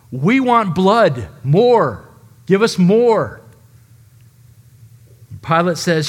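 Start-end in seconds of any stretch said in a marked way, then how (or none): 0.1-3.4 slow, louder frenzied mob chant. Acted. Preacher voicing the mob demanding blood, slow and louder. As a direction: growl it out like a crazed mob. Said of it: "acting like brute animals".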